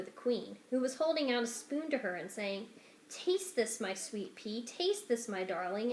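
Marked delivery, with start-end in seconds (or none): 3.1-5.9 tender mother. Acted. Queen offering soup to her daughter, lightly tender. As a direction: coax her lovingly with the spoon.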